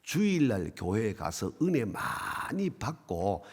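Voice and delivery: lightly voiced elder, low and soft at first; unhurried senior pastor. Senior pastor explaining Chungcheong congregations to a visiting preacher, unhurried.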